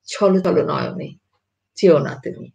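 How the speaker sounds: ছল ছল said as chholo chholo, with o after each ছল. Shown as a demonstration. Teacher reciting a sample line to the class, ছল ছল with final o. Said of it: "যেমন ধরি".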